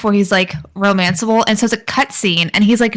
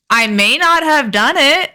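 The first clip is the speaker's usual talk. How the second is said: drawn-out, higher unconvincing denial; mock innocent; 4 semitones higher than usual. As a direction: stretch out a sheepish, guilty-sounding excuse. Mock innocent excuse in story.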